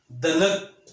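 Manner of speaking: दनक with a full, heavy, loud द; heavy letter sound. Shown as a demonstration. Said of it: "भारी आवाज़ वाले हरूफ". (भारी आवाज़ में दनक)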